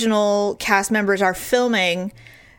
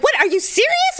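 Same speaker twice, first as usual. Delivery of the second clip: excited disbelief. Retold or imitated. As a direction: gush with amazement. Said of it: "he's like".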